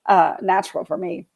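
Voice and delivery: ordinary talk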